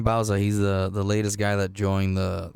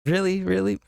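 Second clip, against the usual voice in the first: higher, incredulous mock "really"; mock surprise; 9 semitones higher than usual. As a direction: play a stranger who can't believe it. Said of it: "imagined stranger, high".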